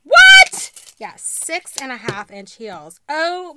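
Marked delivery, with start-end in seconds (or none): 0.0-1.0 much higher and louder disbelief; shocked squeal. Real, not acted. Hearing the heel height, shocked squeal. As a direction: shriek the word in disbelief. Reacting to six and a half inch heels.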